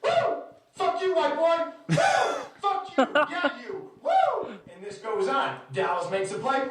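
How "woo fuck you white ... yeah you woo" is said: high-pitched whoops and mock yells; imitating wooing heckler. Drunk-sounding fan taunting him between woos, high mock shouting. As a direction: alternate shrill cheers with shouted taunts. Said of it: "back to the wooing".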